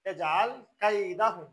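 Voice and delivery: slow, drawn-out recitation of ইয়াজআল কাইদাহুম. Shown as a demonstration. Teacher slowly reciting the verse for students. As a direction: recite ইয়াজআল কাইদাহুম unhurried with long vowels. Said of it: "এই এখানে এসে ভুল করে".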